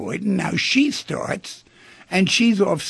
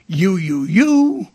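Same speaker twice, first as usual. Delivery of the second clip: yelling back; 2 semitones higher, 6 dB louder, much slower than usual. Retold or imitated. Woman yelling back at him in a retold fight, mock yell. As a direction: imitate a rising, accusing shout. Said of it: "she starts yelling back at him".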